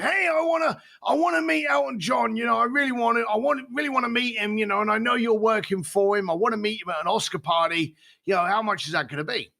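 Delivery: eager caller. Retold or imitated. Caller pleading to meet a famous singer, high and eager. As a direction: play the starstruck fan begging for a meeting.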